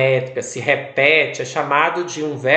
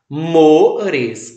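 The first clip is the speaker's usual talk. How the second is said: Mores, with MO louder; stress on MO; 4 dB louder than usual. Shown as a demonstration. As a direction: punch the mo in Mores. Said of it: "o mo é mais forte".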